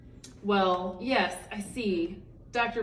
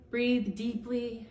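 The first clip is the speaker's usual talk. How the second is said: drawn-out soothing breath cue; slow soothing; 3 semitones higher, much slower than usual. Acted. Therapist soothes Camellia, slowly drawn out. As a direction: stretch it slowly like a calming guide. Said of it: "she said".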